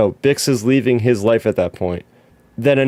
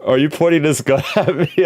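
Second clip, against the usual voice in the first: quoting K-2SO; 4 semitones higher than usual. Retold or imitated. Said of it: "when Alan Tudyk is saying".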